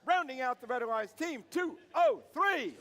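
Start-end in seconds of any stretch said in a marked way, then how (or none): 1.1-2.8 announcer call. Real, not acted. Announcer calling team number.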